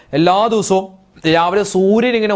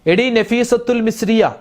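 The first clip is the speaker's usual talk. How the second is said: mock husband calling; 6 semitones higher, slower than usual. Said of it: "ഭർത്താവ് എപ്പോഴും വിളി".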